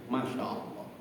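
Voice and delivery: whispered masya allah at the price; whispered awe. Acted. Preacher whispers about the hotel's price. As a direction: breathe it out, stunned by the cost.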